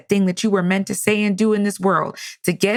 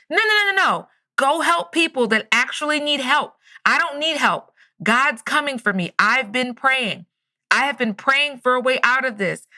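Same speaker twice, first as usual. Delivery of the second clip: calling back; 5 semitones higher than usual. Retold or imitated. Man on roof waves off rescue crew, calling back. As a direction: imitate shouting a refusal over water.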